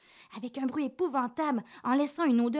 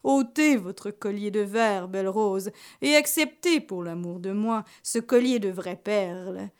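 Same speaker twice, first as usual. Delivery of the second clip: smooth seduction; 2 semitones lower than usual. Acted. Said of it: "en lui disant en riant".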